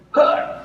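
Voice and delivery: mock exasperated "huh"; exasperated huff. Pastor imitating his reaction to his mother, exasperated huff. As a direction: huff as if provoked.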